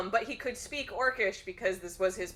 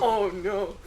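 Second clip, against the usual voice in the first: loud, laughing "oh no"; mock horror; 8 dB louder than usual. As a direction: exclaim it as the retold group. Everybody's mock horror, retold.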